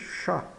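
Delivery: chá with a "sh" start and open A, nothing after; silent final T. Shown as a demonstration. Teacher sums up for learners, chá with the final T silent. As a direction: say chá as in Portuguese, no T. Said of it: "e o T final é mudo".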